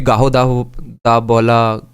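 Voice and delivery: "Gahodav-, Dabola" with rounded o vowels; tentative pronunciation. Shown as a demonstration. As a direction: try out "Gahodav-, Dabola", broken into two pieces. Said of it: "We don't know how to pronounce it".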